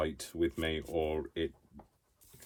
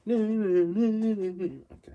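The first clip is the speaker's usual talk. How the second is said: 1 loud yelp; 9 dB louder than usual. Real, not acted. Tissue tears while she works.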